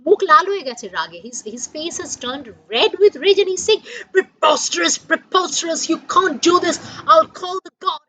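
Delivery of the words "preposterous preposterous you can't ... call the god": indignant, louder posh British English; outraged in clipped Queen's English. Acted. Insulted Indian gentleman protesting to soldiers, Queen's English. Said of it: "in his very, very Queen's English".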